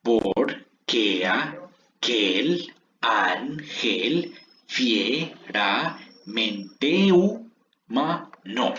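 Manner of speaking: very slow, every syllable drawn out at full voice; slow syllable reading. Shown as a demonstration. Teacher reads the verse slowly to the class, syllable by syllable. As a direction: lay out each syllable of "Porque aquel ángel fieramente humano" for counting. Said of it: "Veamos cuántas sílabas quedaron por línea".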